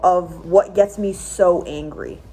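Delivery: heated, indignant outburst; fired-up anger. Real, not acted. Vlogger venting to viewers about weak domestic-abuse law, heated. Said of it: "I'm getting fired up".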